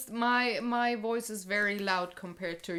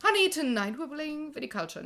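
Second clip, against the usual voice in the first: higher, bright sing-song call to her partner; sweet announcement to honey; 7 semitones higher, 4 dB louder than usual. Pretend. Wife announcing wine night to her husband, sing-song. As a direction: coax like a playful spouse. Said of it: "I can say".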